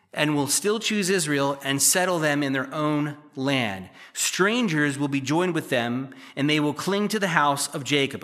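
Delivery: "still" stressed in a slow, deliberate reread; slow emphatic reading. Shown as a demonstration. Preacher rereading scripture to the congregation, slow and deliberate. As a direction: read it again slowly, pressing on "still". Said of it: "Let me read that again".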